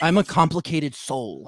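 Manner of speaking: slow, moody Southern self-pity; emo Southern. Acted. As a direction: brood slowly with a hint of Southern. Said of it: "emo Southern".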